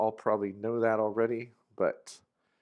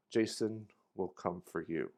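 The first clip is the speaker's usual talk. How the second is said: ominous; 3 semitones lower, 5 dB quieter than usual. Shown as a demonstration. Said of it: "This can also add a subtle drama".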